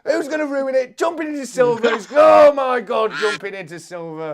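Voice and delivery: high-pitched, breathless call of the finish; excited race commentary. Real, not acted. Commentator calling the last seconds of the race, frantic excitement. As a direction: cry out the final seconds at full pitch.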